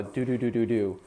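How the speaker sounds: connected run of D syllables on "do, do, do, do, do"; tongue a slurred "do, do, do, do, do"; slurring syllable. Shown as a demonstration. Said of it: "that we're still doing the".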